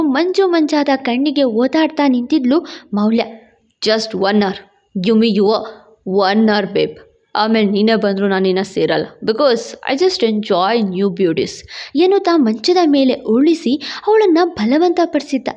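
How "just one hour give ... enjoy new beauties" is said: low male voice in separated phrases; predatory seducer. A narrator's reading. Harasser pressing the dazed woman, low and predatory. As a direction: coax low and lecherous, dragging out the English.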